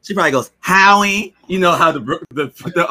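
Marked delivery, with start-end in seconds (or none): 0.6-1.3 a light Brooklyn mother calling Howie, a little higher; Brooklyn mom accent. Retold or imitated. Imitating how a Brooklyn mom calls her son, light Brooklyn accent. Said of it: "white people from New York talk".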